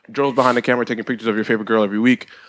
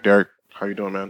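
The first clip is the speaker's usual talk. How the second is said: a touch lower, matching Derek's low register; 5 semitones lower than usual. Shown as a demonstration. Host greeting Derek in a slightly lowered voice. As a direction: drop the voice a little to greet him. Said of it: "I have to lower my voice when I introduce Derek".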